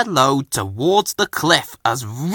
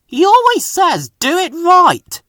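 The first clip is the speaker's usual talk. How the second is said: mocking Fergus; 6 dB louder than usual. A narrator's reading. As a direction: parrot him with scorn. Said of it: "said Ben".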